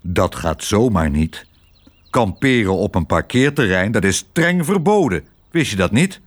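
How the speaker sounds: lightly voiced officious dog; stern police dog. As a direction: lay down the rules sternly.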